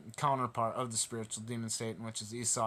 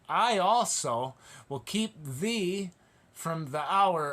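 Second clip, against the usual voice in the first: emotional reading; 3 semitones higher, 4 dB louder, slower than usual. Real, not acted. Moved preacher rereading the red letters, emotional. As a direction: let the passion crack through slowly. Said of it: "it's hard for me not to get emotional".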